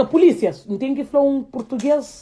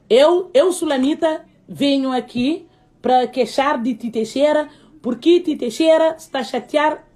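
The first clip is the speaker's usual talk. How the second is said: a put-on Cape Verdean auntie complaining in broken Portuguese; comic complaint in a put-on broken Portuguese; Sulamita character voice. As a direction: play the aggrieved neighbour filing a complaint, mock serious.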